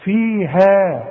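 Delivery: slow, drawn-out "فيها" with thin final aa; light ha. Shown as a demonstration. Teacher demonstrating for a student, long light ha. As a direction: stretch "فيها", ha kept thin. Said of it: "لكن اله هي المرققه".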